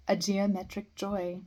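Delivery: measured poem recital with line breaks; poetry reading. Acted. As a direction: recite verse, pausing after each phrase. Reads a poem aloud.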